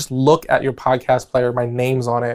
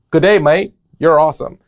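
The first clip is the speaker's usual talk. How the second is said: Australian accent, pitched a little up; attempted Australian accent; 4 dB louder than usual. Shown as a demonstration. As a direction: do your best amateur Australian accent. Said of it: "that was my best Australian accent".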